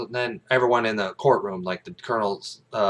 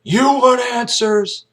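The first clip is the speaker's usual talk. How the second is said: high, slow taunting question; challenging taunt; 8 dB louder, much slower than usual. Retold or imitated. Jessup baits Kaffee with a slow, raised taunt. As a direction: dare him, drawing it out. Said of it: "He's like".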